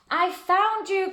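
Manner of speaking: high, loud, slow joyful call; happy cry. Acted. George finally meeting the Yeti, high loud happy cry. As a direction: shout it with a big grin. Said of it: "cried George with a big happy grin".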